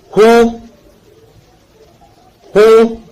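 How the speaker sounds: "hou" held long and high; long vowel example. Shown as a demonstration. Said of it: "la formation de certaines voyelles longues".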